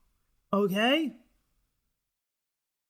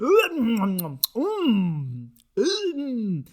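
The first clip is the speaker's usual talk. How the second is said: played-off hum; 2 semitones higher, much slower than usual. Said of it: "I really played it off".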